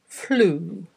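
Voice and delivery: drawn-out word, carefully dictated; slow dictation. Shown as a demonstration. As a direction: read it out slowly, pausing long between repeats. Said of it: "read ten words aloud slowly".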